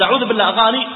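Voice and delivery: loud, indignant exclamation; the wrong harsh way; mock outraged outburst. Shown as a demonstration. Preacher acting a harsh reaction to a taxi driver's song, loud and outraged. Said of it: "أفرض أني".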